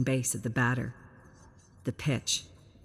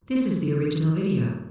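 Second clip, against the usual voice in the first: fast, even and louder machine reply; flat computer voice; 4 dB louder, faster than usual. Acted. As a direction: answer instantly like a computer. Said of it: "responds immediately and flatly".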